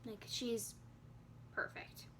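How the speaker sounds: hushed, fading into a whisper; very soft, overcome with real emotion; moved near tears. Real, not acted. Mother thinking about her newborn pictures, moved near tears. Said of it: "I wanna cry thinking about it".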